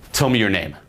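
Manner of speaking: firm command with a falling end; bossy order. Shown as a demonstration. Coach showing how to boss a girl, ordering. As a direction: state it as an order, no question in it. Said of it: "just order and boss".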